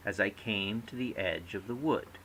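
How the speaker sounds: "As I came to the edge of the wood" leaning on "came", "edge", "wood"; natural triple rhythm, stressing "came", "edge" and "wood"; every third syllable stressed. Shown as a demonstration. Teacher reading a verse example, "came", "edge" and "wood" stressed. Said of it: "every third syllable is naturally stressed".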